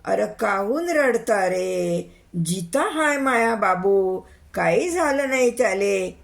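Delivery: put-on old mother protesting over the crying; mild shouted protest. Old mother telling mourners her son lives, mildly shouted. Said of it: "म्हातारी ओरडू ओरडू म्हणे".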